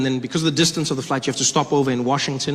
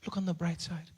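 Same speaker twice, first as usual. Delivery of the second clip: much softer, gentle mother; soothing mom; 12 dB quieter than usual. Acted. Injured mom comforting her crying son, soft and soothing. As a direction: quietly hush and reassure. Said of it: "And she says".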